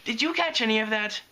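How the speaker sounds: high-pitched bewildered aside; baffled question. A narrator's reading. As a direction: ask as if you understood nothing.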